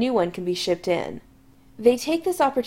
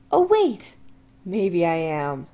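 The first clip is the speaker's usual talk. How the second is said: put-on drunk; 2 semitones lower, slower than usual. Drunk Chris realizing.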